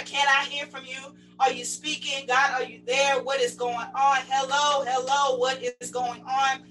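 crying out to God. Acted. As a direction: call out for an answer, lightly urgent. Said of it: "We are crying loud and we are sparing not".

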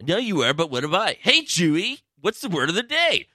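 half-there cartoonish host impression; Pee-wee Herman. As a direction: pitch it up into a playful TV man-child. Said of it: "I think I can do Pee Wee now".

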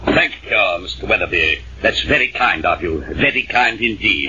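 low, formal, over-polite thanks; dignified. Acted. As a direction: act serious and dignified to impress him. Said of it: "now, serious and dignified".

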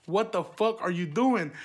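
shocked teacher. Retold or imitated. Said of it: "these were the words out of her mouth".

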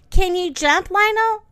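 loud, high storybook call. Acted. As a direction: call it up anxiously. Calling up to boy in tree.

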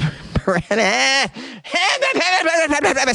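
high-pitched laughing babble. Real, not acted. Podcaster flubbing a medical term, high silly laughing. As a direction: give up on the word in a high, goofy laugh. Stumbles over a hard word, gives up.

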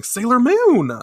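high, loud shout of a name; yelling. Retold or imitated. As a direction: yell for her as she falls. Everyone yelling.

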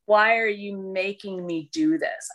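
low, heavy Slavic voice with resentment; resentful Slavic accent. Retold or imitated. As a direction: sullen Slavic man, resentful. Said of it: "this deep sense".

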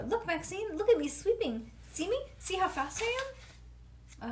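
high eager calling; excited child. Acted. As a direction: show off to the hairdresser.

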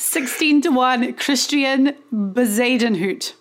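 Scottish accent. Shown as a demonstration. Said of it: "can you lay on the, the Busenhout, pronunciation?".

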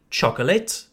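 "chocolate" in three syllables, CHOK-o-lit; French learner's mispronunciation. Retold or imitated. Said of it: "it's clear you're French".

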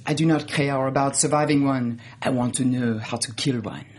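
low, deliberate mock-French line; serious French accent. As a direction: imitate her gravely in a French accent. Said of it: "she gets real serious".

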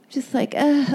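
giggling through the words; laughing. Real, not acted. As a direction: cringe and laugh it off. Embarrassed at own sexting.

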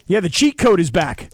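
mock-impressed cheer; lightly mocking hype. Real, not acted. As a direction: tease with exaggerated conviction. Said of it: "I hear your mockery in your voice".

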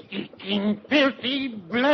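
furious name-calling at the Nazi; angry cursing. Acted. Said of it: "Don't let him curse".

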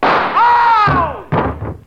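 sudden high yelp of pain. Acted. Shot by the rival gunman, a high yelp of pain. Fly shot off his nose.

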